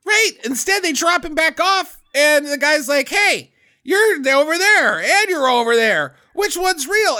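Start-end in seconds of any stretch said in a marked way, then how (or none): 3.1-7.2 higher, excited retelling of the guy; mock confused guy. Friend retelling movie hero facing two copies, mock confused. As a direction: play the baffled hero pointing at both.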